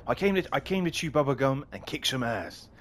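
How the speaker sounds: lightly voiced action hero line; movie quote. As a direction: quote the tough guy line, half-serious. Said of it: "what's the word from that movie".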